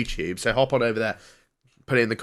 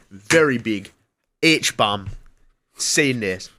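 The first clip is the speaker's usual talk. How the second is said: put-on Jamaican accent; much slower than usual. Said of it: "reaching the limit of my Jamaican here".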